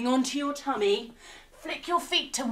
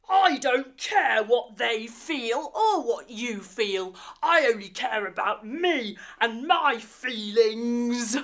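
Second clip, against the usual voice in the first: selfish villain; 2 semitones lower than usual. Acted. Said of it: "Snarge jumps wide and says".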